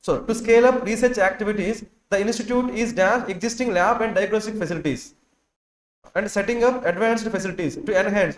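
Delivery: very slow, each word separated for copying; unhurried classroom dictation. Shown as a demonstration. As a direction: read it out slowly so the class can write. Teacher dictating a passage slowly.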